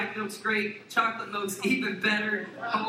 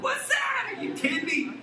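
shrill incredulous jump way up; high, hammed-up outrage; mock disbelief. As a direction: act stunned at the kids' question. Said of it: "I'm like".

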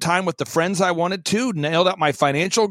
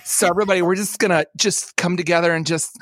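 mock lisping worship leader; 6 semitones lower than usual. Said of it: "he said; exclusively spoke in the tss".

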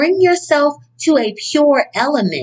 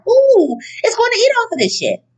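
mocking mama; 11 semitones higher than usual. Mocking mama's fussiness over china.

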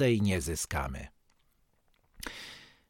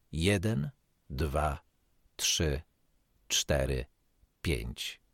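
counting down softer and lower; 11 semitones lower, 6 dB quieter, slower than usual. Acted. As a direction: let each number sink quieter. Counting the held breath. (ciche, opadające odliczanie)

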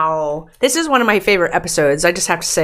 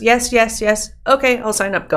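eager; 5 semitones higher, 3 dB louder than usual. Retold or imitated. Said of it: "I'm the type of person who goes".

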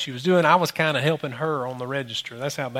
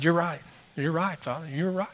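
humbled; 8 dB quieter than usual. Retold or imitated.

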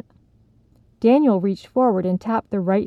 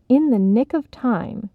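slow, deliberate reading; careful reading; 3 semitones higher than usual. Acted. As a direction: read each word with care. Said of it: "she read carefully".

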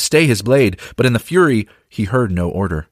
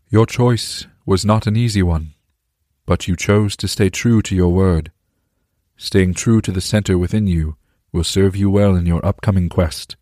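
booming voice. Acted. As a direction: speak like a calm divine presence. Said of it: "that same booming voice from before".

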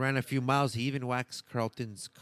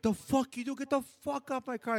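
mock angry; 14 semitones higher than usual. Owner yells at car waxer.

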